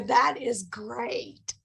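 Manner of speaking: very slow, drawn-out "great"; polite fake enthusiasm. Telling a stranger his story is great, slow mock politeness. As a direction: stretch it out with polite restraint. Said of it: "I go".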